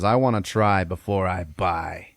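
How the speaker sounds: slow, lightly creepy voice; understated creepy stranger, taking his time; creepy man. Acted. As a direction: draw it out with a hint of creep. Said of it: "creepy sounding and shit".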